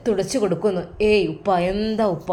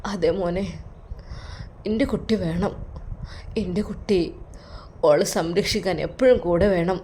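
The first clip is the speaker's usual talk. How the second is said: put-on tearful old father; 5 dB quieter than usual. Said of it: "അത് പറഞ്ഞുകൊണ്ട് കരയുന്നു".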